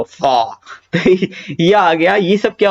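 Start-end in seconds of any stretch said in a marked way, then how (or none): 0.0-0.6 फा as a slow, drawn-out "faa"; felt from inside. Shown as a demonstration. Teacher urging learners to feel the sound, from inside. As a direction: draw फा from within, with a long airy f. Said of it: "अंदर से लो ना".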